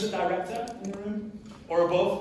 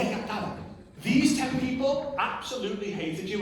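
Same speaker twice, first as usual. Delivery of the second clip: higher, laughing as he tells it; laughing report; 6 semitones higher than usual. Retold or imitated. Son telling dad the list hated him, laughing and higher. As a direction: laugh through the bad news.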